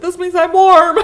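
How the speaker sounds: loud, high, laughing exclamation; gleeful retort. Retold or imitated. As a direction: belt out a delighted comeback through laughter. Retold happy retort to husband.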